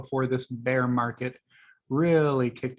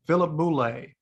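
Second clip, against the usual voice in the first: the name said in a lightly put-on Philadelphia accent, Philip Boulet; a quick, half-hearted Philadelphia twang on Philip Boulet; terrible Philadelphia accent; 2 semitones higher than usual. Shown as a demonstration. Joking about a fan's name, in a mild mock Philadelphia accent. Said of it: "That was a terrible Philadelphia accent".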